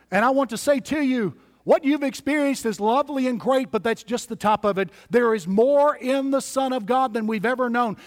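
impassioned preaching. Real, not acted. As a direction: build to a rousing sermon climax. Preacher's climactic exhortation.

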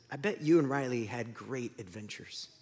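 subdued, gently gloomy voice; Sadness. Acted. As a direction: offer quiet, downcast sympathy. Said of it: "And Sadness says".

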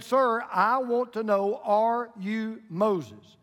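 slow, spaced-out insistent question; acted, deliberate demand. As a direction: press for an answer, stretching each word. Third, insistent try in joke.

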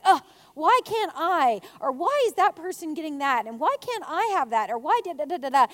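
hammed-up envious whining; mock complaint, grumbling through each why; grumpy. Speaker imitates her own complaints to God, grumpy. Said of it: "I'm get grumpy sometimes".

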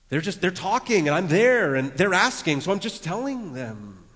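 high, loud defensive excuse; defensive protest. Acted. Preacher playing a gossip making excuses, loudly defensive.

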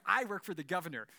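hammed-up haughty threat; snotty. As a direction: toss it off like an entitled snob. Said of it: "So super snotty".

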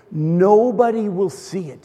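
slow, calm reassurance; reassuring. Retold or imitated. Husband calming his panicked wife, slow and reassuring. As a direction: slowly soothe her.

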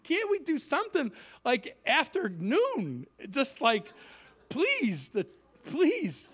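retold, drawn-out begging; plead, dragging out the please. Preacher begging for an afternoon slot, mock pleading. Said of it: "I pleaded".

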